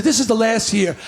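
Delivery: put-on low determined kid. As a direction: state it like a solemn vow. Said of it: "I said".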